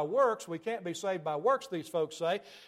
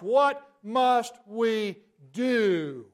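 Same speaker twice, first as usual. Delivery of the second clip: desperate plea; 4 semitones higher, 7 dB louder, much slower than usual. Acted. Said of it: "the question asked by the Jews".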